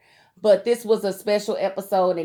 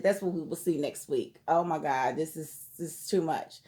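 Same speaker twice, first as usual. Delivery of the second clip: exhausted sigh; 6 semitones lower, 8 dB quieter than usual. Real, not acted. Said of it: "I'm angry".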